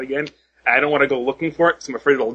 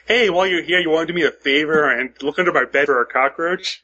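casual. Pretend. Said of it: "drop really casually".

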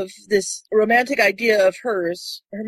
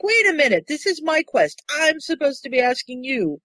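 put-on raised, indignant girl's voice; high mock protest; 7 semitones higher than usual. Quoting her objecting to him, in a raised indignant voice. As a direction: squeak out the objection, pitched up. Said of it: "And she's like".

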